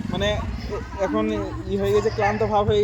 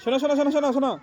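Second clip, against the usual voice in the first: loud high calls across the field; calling out; 7 semitones higher, 3 dB louder, faster than usual. Real, not acted. Calling boys over on the field.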